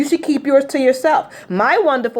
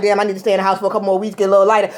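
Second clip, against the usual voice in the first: inner thought; 5 semitones lower, much faster than usual. Retold or imitated. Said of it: "I'm still in my head like".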